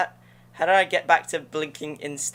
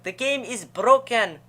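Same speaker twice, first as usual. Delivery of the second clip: meme quote; 6 semitones higher, 6 dB louder, slower than usual. Retold or imitated. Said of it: "this meme from back in the day".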